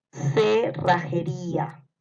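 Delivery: very slow, stretched "Cerrajería"; dictation. Shown as a demonstration. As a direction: draw out each syllable of "Cerrajería". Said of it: "les voy a ir dictando". (dictado muy lento de "Cerrajería")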